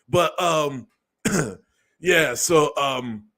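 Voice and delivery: mock nervous celebrity apology, throat clearing; Will Smith impression. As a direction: play the awkward apology video, lightly voiced. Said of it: "Let me do my Will Smith impression".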